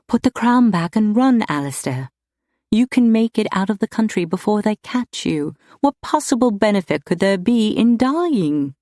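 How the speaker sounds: high, urgent plea to flee; urgent pleading. A narrator's reading. She urges him to flee.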